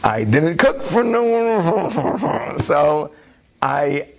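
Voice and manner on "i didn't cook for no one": slow, high, laughing wife's line; a wife's mock-scolding stare put into words; wife's pointed look. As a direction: drawl it out through a laugh, pointedly. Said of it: "my wife is just staring at me like".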